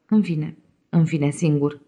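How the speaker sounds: a soft, slow, private exultation; exulting. Acted. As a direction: savour being finally alone, half to yourself. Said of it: "exultă Emanuel". (exultare șoptită, lentă, de unul singur)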